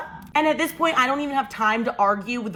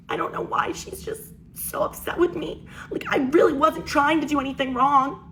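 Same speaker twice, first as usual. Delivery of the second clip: mock tearful; 2 semitones higher than usual. Sister pleading innocence to parents, imitated as tearful. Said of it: "she starts crying. She goes".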